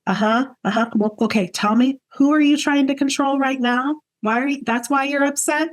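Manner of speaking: a light take on a gentle British sponsor, rising toward the question; lightly voiced kind British lady. Sponsor on the phone calming upset Aubrey, gently British. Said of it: "kind British lady".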